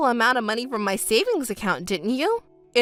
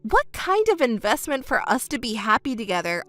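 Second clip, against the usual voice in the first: a scornful repeat, not raised; incredulous mocking echo. Ex-girlfriend scoffing at her cheating ex's excuse, incredulous. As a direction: throw his own words back, disbelieving. Wife mocks his excuse back.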